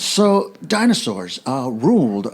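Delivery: slow, halting actor impression; Christopher Walken. Friend trying his brother's Walken bit, slow halting impression. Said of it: "I'm doing Christopher Walken".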